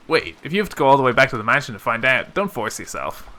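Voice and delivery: quick interjection, easing at the end; casual concerned cousin. Acted. Cousin telling the servant not to walk back, hurried concern. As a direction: cut in fast to spare them the trouble.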